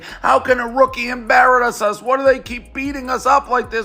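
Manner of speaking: mock crybaby. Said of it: "because they're crying".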